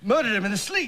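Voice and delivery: put-on English accent. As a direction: play the grudge-holding father. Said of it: "he was very upset".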